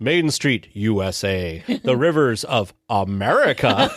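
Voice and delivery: lightly voiced solemn eagle; a hint of pompous patriot; Sam Eagle. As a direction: list them off proudly, breaking into laughter. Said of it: "I thought it was hilarious where he's like".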